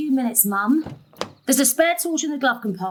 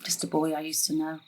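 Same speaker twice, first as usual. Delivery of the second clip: lower, softer, subdued memory; 6 semitones lower, 5 dB quieter than usual. Acted. Mother telling her daughter of the drowned boy, low and soft. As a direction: quietly recall a lost friend.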